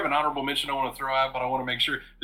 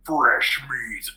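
deep monster voice; 4 semitones lower than usual. Retold or imitated. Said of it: "in this deep monstery voice".

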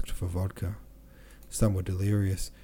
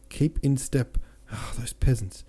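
sharp raised shout; 5 semitones higher than usual. A narrator's reading. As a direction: shout the order at the peasants. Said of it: "shouted an officer".

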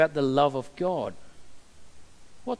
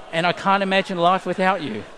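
faster, louder swell of devotion; gushing declaration; 3 semitones higher, 6 dB louder, faster than usual. Acted. James blurting his devotion to Jane, louder and faster. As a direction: burst out the big declaration.

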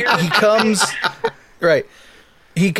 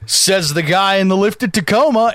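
calm, smooth, confident retort; cool comeback. Pretend. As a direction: deliver it coolly, no stumbling. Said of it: "where I could have been like".

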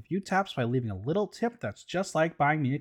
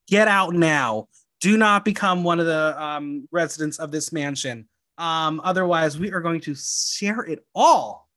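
ominous warning; 3 dB louder than usual. Pretend. Spooky spoiler warning to listeners.

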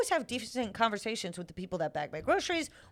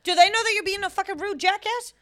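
mock confrontation; 8 semitones higher, 4 dB louder than usual. Mock confronting rude caller.

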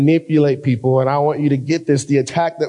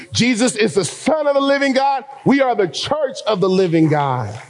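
preaching at full force; 4 semitones higher than usual. Acted. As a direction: proclaim it triumphantly to the congregation. Sermon climax on the church.

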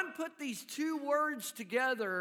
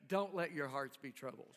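soft reassurance; 8 semitones lower, 6 dB quieter, faster than usual. Retold or imitated. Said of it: "Jesus looked at him and said".

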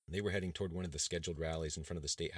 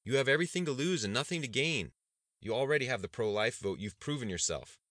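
urgent aide; 7 semitones higher, 6 dB louder than usual. Acted. Aide warns the governor off the rally, urgent and loud. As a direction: plead with the governor to back down.

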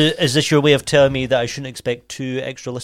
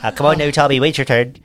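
put-on Irish accent. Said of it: "Why do we all have different accents?".

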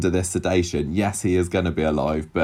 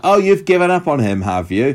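mock anger; 6 semitones higher, 5 dB louder than usual. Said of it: "she's like".

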